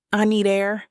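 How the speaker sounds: ragged, strained voice. Acted. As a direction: voice fraying under strain. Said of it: "voice ragged".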